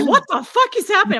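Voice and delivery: high, incredulous quote of a text; squeaky what-the-hell; mock exasperated text. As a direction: read the text out high and baffled. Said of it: "Josh would text me".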